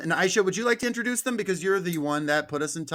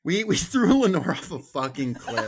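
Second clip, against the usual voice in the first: laughing; 3 semitones higher, 3 dB louder than usual. Real, not acted. Joking about murdering absent cohost.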